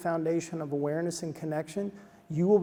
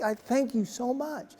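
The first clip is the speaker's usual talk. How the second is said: gushing thanks; 6 semitones higher, slower than usual. Retold or imitated. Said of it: "I'm, like, totally annoying".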